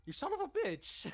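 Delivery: high, loud in-character yell; acted outraged yell. Leo spots long-missing Mikey in the tunnel, outraged yell. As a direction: yell it as an indignant greeting.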